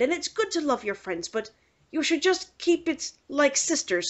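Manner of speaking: Irish priest handing down penance; Irish accent. Retold or imitated. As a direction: gently lecture in a mock Irish accent. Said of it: "he had a very thick Irish accent".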